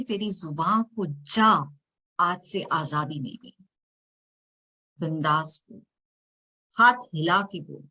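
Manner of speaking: measured, dramatic spoken-word reading; poem recitation. Acted. Poet reciting her poem to the audience, dramatic spoken word. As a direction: perform the poem line by line, with pauses.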